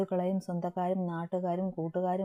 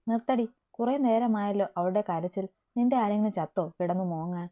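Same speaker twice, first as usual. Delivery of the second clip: mildly raised, exasperated scold; irritated scolding. Acted. Nia scolding her sobbing friend, mildly angry. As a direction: snap at her to stop crying. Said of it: "നിയയുടെ ഒച്ച ഉയർന്നതും".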